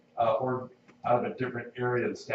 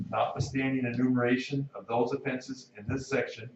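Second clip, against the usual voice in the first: reading text aloud with spoken punctuation; dictating. Shown as a demonstration. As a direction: read it out clause by clause, naming each comma. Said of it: "which states".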